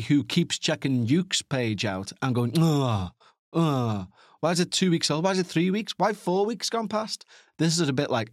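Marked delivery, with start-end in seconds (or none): 2.6-4.1 short falling groan of frustration; mock disappointed groan. Fan checking a channel for new videos, mock groan. Acts out groaning at old uploads. 4.4-7.2 complaint climbing higher with each question; mock exasperation. Fan finding no new video for weeks, mock-exasperated. Acts impatient fan checking page.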